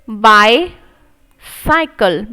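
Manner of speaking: bicycle drawn out very slowly, split into parts; syllable by syllable. Shown as a demonstration. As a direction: sound out each part slowly. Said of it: "तो ballot".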